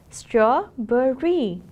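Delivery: "Strawberry" stretched slowly and loudly, STRAW-ber-ry; slow syllable demo. Shown as a demonstration. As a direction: sound out "Strawberry" slowly for the class. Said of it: "it has three syllables".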